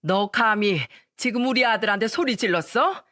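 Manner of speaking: lightly hammed-up yelling mother-in-law; shouting mother-in-law. Mother-in-law bursting in on the couple, mock shouting. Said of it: "소리쳤습니다".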